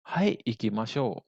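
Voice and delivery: stretched-out, measured teaching pace; slow model answer. Shown as a demonstration. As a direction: draw the reply out slowly for students. Teacher models answer slowly first. (jawaban contoh dengan tempo lambat)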